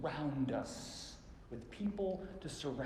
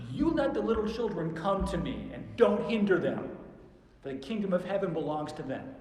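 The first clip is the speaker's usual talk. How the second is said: loud, raised indignant command; angry; 4 semitones higher, 7 dB louder than usual. Acted. Jesus angry with his disciples, loud rebuke. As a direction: scold them with a raised voice. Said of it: "I think he was angry with his disciples".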